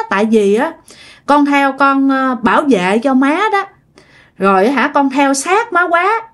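a hint of a spirit child explaining to its mother; gently acted, earnest confession; lightly voiced child spirit. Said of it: "Người này nói vậy".

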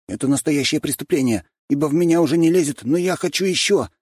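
rushed, greedy delight at a full belly; Kolyan, full and greedy. A narrator's reading. Kolyan moaning to friends he is stuffed. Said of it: "заключил Колян".

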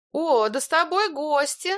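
high, slow, glad exclamation; delighted woman. A narrator's reading. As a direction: greet the guests brightly. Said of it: "обрадовалась Илона". (радостно, высоким голосом)

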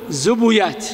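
زبيات said zubuyāt, u on both z and b; disallowed copied vowel. Shown as a demonstration. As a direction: say زبيات with a short u after the b. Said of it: "ما يجوز فيها الاتباع". (زبيات بضم الزاي والباء)

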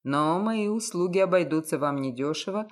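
low, cynical, self-assured detective. A narrator's reading. Detective voiced lower.

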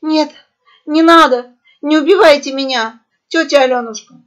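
high, tearful begging; hysterical sobbing plea. A narrator's reading. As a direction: beg for your life in tears. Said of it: "истерически прорыдала орлица". (истерические рыдания)

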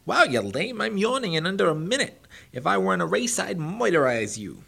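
high, loud, mocking hare; cocky hare voice. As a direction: taunt him like a bratty show-off. Bucky brags.

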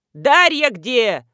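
loud, slow bellowed call; bellowing. A narrator's reading. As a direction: bellow her name across the yard. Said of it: "заголосил Дегтярев".

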